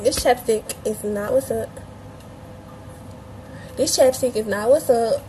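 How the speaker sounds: light Southern accent demo; casual Southern slang in a Southern accent. Shown as a demonstration. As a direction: show off an Atlanta Southern accent. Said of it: "That's my Southern accent".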